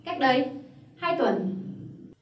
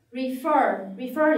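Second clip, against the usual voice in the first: "Refer" with the weight on "fer"; stress on second syllable; much slower than usual. Shown as a demonstration. Teacher models an English word for learners, stress on final syllable. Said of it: "cái âm tiết cuối ấy".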